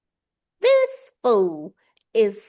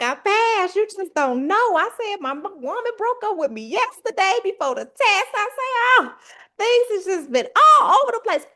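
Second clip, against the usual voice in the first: much higher, laugh-crying; ugly cry; 11 semitones higher, 4 dB louder than usual. Retold or imitated. Telling the test lady she passed, much higher crying through laughter. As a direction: sob out the relief between laughs. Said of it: "It was an ugly cry".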